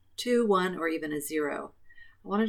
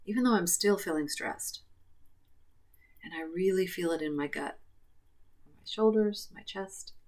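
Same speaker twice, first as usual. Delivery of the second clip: guided tapping script. Acted. Leads tapping setup statements.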